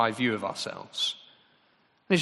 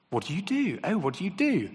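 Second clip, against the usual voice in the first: mock networker; 6 semitones higher than usual. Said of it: "The West London vibe check is this".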